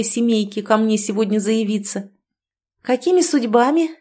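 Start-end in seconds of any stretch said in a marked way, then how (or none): 2.8-3.9 hysterical cheer. A narrator's reading. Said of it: "истерической улыбкой".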